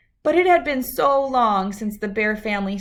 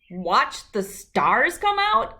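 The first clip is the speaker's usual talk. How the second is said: complaining Sister; 3 semitones higher, slower than usual. Acted. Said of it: "complained Sister".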